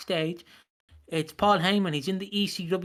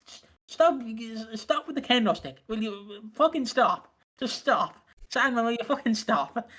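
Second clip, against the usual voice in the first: high, pleading referee begging him to stop; frantic referee; 4 semitones higher than usual. Retold or imitated. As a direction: play a panicked ref losing control. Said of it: "the referee's like".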